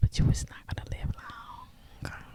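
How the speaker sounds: soft, slow, hushed whisper. Giving advice to the listeners, whispering. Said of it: "I'm sorry to whisper this".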